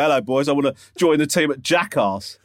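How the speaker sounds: posh eager schoolboy. Pretend. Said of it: "sound like a public schoolboy".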